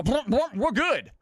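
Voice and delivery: high, loud oinking pig voice; oink, then answer up high as the pigs; talking pigs. Acted. Pigs greeting the ventriloquist, high loud oinky voice. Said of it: "And they go".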